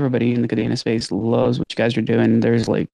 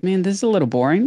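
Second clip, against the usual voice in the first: bored; 7 semitones higher, faster than usual. Retold or imitated. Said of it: "if you're like".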